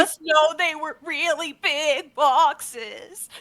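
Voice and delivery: high, slow little gnome voice; timid gnome. Acted. Gnome apprentice answering Arista, high and slow. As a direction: answer shyly like a nervous apprentice.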